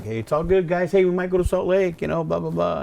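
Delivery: high, pumped-up fake cheer for the kids; playing it off cheerfully. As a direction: play it off brightly, pitch lifted. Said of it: "play it off".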